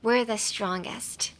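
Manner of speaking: slow, careful model of WE'RE THE STRONGEST; slow pronunciation. Shown as a demonstration. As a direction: say WE'RE THE STRONGEST slowly for learners. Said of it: "In English".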